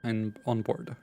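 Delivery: measured ATC radio phraseology; pilot radio call. Acted. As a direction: read it like a pilot on frequency.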